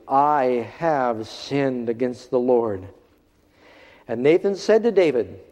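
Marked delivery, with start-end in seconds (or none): 0.1-2.9 simple confession. Retold or imitated. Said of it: "David says very simply".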